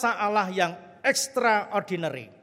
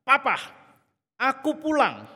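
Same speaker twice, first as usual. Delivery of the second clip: a raised, tender call to her father; gentle homecoming call; 6 semitones higher, 4 dB louder than usual. Retold or imitated. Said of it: "Bukan dengan kebencian". (panggilan lembut, sedikit tinggi)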